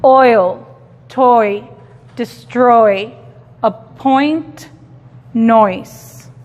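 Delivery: "Oil" "toy" "destroy" "appoint" "noise" repetidos con oi claro; repeat model. Shown as a demonstration. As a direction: repite cada palabra marcando oi. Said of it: "esto tiene el sonido oi". (repetición modelo oi)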